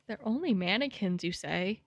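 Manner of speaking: incredulous echo, dropping at the end; mock disbelief. Real, not acted. Streamer throwing the game's line back, mock disbelief. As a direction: echo it back with swooping pitch.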